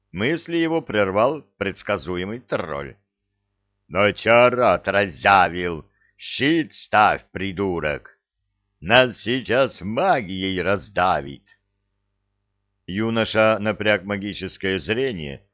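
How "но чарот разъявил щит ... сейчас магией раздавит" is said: alarmed shout. Acted. Тролль кричит в бою.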